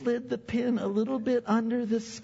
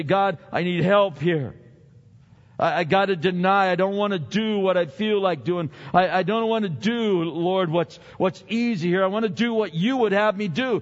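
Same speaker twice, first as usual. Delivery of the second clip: mock prayer; 4 dB louder than usual. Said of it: "you need to say".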